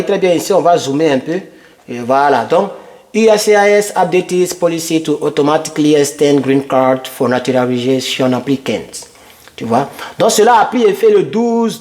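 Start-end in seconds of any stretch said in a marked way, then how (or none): 3.1-9.1 level, monotone reading of a headline; read-aloud. Acted. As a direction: read the English text out evenly. Reads policy headline aloud on screen.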